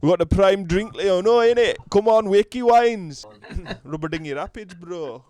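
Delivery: high, loud Yorkshire Asian bloke; Yorkshire Asian accent. Retold or imitated. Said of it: "proper thick Yorkshire Asian accent".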